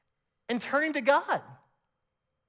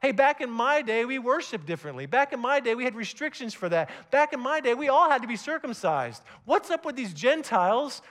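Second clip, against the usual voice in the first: put-on grumbling old-timer; 5 semitones higher, 4 dB louder than usual. Preacher voices grumbling old believer.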